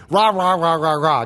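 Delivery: grumbled rah rah rah sounding out the word; a quick imitation of people grumbling; mock grumbling. Shown as a demonstration. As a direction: mimic a low discontented mutter. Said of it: "So when you say gagusmas, you hear the meaning".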